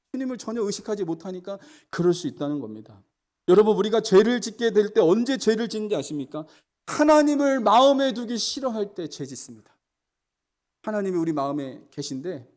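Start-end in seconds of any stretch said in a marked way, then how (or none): 3.5-9.8 higher, louder rising preaching list; climbing sermon cadence; fervent preaching. Acted. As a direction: stack each phrase higher for the flock. Preaching at full force.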